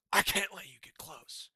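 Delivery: a light mock British accent. The British taking over the States, mock British accent. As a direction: put a British lilt on it. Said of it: "the voice I've been doing".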